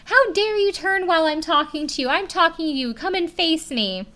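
a fairly earnest impression of a boss's furious rant; retold yelling. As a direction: imitate her yelling at the waitress. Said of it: "Amy yells at her".

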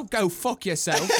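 British accent. Shown as a demonstration. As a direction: drawl it British-style, amused. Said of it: "That's how they do it".

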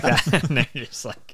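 high British voice through buck teeth; mock a silly English gent with buck teeth. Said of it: "They have, like, fake buck teeth".

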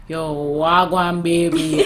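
mock smooth pickup delivery; street pickup line. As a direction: imitate a man's slow, low come-on. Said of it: "That is the pickup line".

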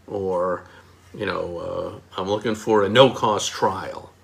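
lightly voiced silly customer asking for no cost; a hint of a goofy shopper; mock customer. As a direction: play a customer who talks like an ad.

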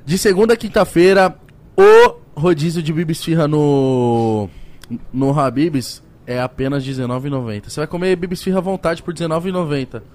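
upbeat sponsor pitch; ad read. Acted. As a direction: sell it like a host ad read. Reads sponsor ad. (leitura de publicidade animada)

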